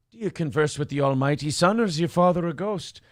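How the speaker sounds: put-on Irish accent. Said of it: "slipping into Irish for Braveheart".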